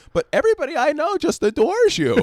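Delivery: high, loud imitation; gushing quote. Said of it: "she's like".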